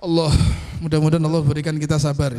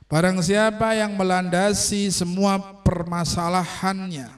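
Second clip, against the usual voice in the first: religious text recitation; 4 semitones higher, slower than usual. Real, not acted. Reads Arabic text and translates.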